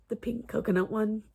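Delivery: cracking, losing her voice. Real, not acted. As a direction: voice giving out mid-phrase. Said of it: "sorry, lose my voice".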